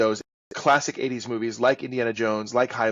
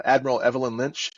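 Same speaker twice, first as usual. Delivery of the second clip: ordinary talk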